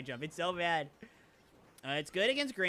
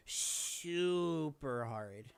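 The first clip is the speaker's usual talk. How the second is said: drawn out; 3 semitones lower, 3 dB quieter, much slower than usual. Real, not acted. Stretching out how hard it is.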